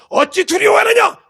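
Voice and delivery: high, drawn-out shouted rebuke; rebuking shout. Acted. Preacher as Jesus challenging fearful disciples, rebuking shout. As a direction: shout it slowly, full of reproach. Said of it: "내 자식, 내 제자들 보고".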